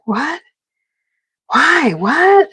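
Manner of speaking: rising confused what, why; baffled. Retold or imitated. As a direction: act stumped and baffled. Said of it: "I was like".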